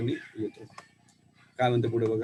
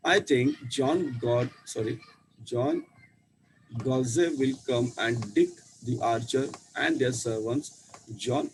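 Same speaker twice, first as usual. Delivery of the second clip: put-on slow, careful story reading to children; slow read-aloud; much slower than usual. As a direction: read each English word slowly for the class. Reads English story slowly aloud. (मुलांसाठी हळू इंग्रजी वाचन)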